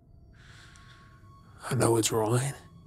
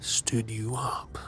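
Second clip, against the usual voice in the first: taunting whisper; 4 dB quieter, slower than usual. Acted. Taunting about missed birthday.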